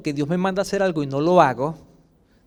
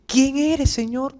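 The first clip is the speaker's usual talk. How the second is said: a touch of fear, pitched higher; startled question, lightly acted; frightened; 5 semitones higher, slower than usual. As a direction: ask who it is, mildly scared. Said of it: "Asustado, ¿verdad?".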